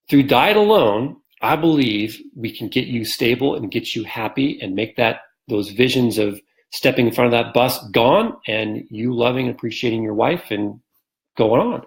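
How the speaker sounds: mildly excited, earnest promise to a patient; retold excitement. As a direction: show him your excitement as you make the promise. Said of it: "I showed him my excitement".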